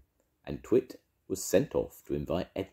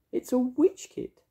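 high, sing-song witchy voice; bright, bossy little witch; 5 dB louder than usual. Acted. Mavis voiced.

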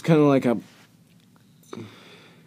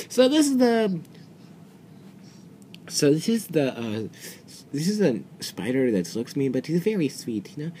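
much higher, light put-on voice; sweet villager voice, pitched up; high character voice; 4 semitones higher than usual. Player voicing a villager about a spider, high put-on voice. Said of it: "it's like".

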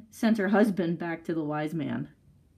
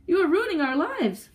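high, raised accusation at normal speed; distraught cry; 9 semitones higher, 4 dB louder than usual. A narrator's reading. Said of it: "cried the husband".

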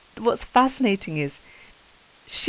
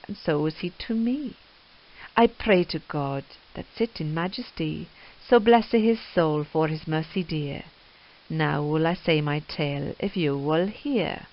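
rhythmic iambic reading of Chaucer in Middle English; Middle English verse reading. Shown as a demonstration. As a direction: let the old verse roll in iambic pentameter. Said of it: "trying to read it in iambic pentameter".

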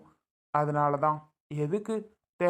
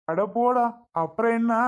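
loud, high, scornful brush-off; angry dismissal; 6 semitones higher, 6 dB louder than usual. Acted. Father shouting down his pleading child, angry and dismissive. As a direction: snap it away, louder and higher.

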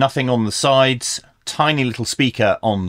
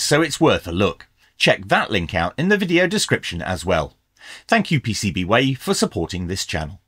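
ad read; faster than usual. Acted. Reads the sponsor ad copy.

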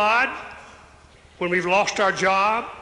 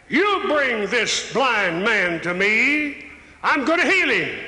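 a hint of a stern command; 3 semitones higher than usual. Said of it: "and commanded them".

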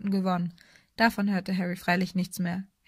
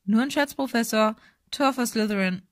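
Spielkommentar; 3 semitones higher, 3 dB louder than usual. A narrator's reading. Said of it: "Lee kommentierte immer noch das Spiel".

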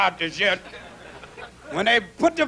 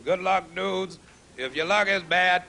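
tender farewell; 5 semitones lower, 4 dB quieter than usual. Real, not acted. Soft goodbye to audience.

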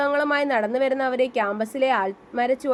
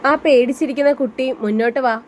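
grave commanding voice; 7 dB louder than usual. Acted. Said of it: "മനുവിന്റെ കനഗംഭീരമായ ശബ്ദം".

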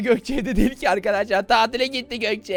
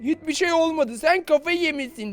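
acting innocent; 6 semitones higher than usual. Shown as a demonstration. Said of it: "Diyeceğim ki".

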